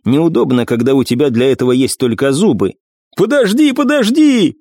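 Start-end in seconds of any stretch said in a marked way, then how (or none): 3.2-4.5 desperate pleading. Acted. Wounded assassin begs Iris to stop, frantic high pleading. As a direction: beg for your life in panic. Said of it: "взмолился раненый".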